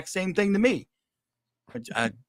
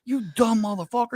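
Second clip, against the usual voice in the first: mock self-scolding; 8 semitones higher than usual. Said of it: "He's like".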